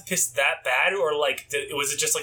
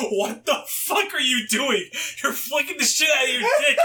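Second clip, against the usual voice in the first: mom's mock shout; 7 semitones higher than usual. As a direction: imitate mom yelling in disbelief. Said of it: "she's like".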